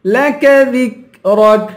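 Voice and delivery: لك ذكرك slowly with light, crisp ك; thin kaf. Shown as a demonstration. Teacher showing thin letters, ذكرك with a light ك. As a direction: chant لك ذكرك, keeping every ك thin. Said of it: "کاف کو باریک کریں گے".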